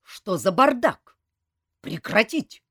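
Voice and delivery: loud, high, slow military bark; barked order. A narrator's reading. Colonel breaks up the brawl, barking. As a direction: order a room to stop at once. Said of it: "с порога рявкнул полковник Сур".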